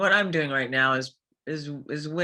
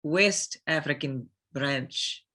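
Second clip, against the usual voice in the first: African accent. Shown as a demonstration. Reciting Sheva's title in an African accent on request. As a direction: roll out the name and title in a thick African accent. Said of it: "could you say, uh, Captain Sheva Alomar".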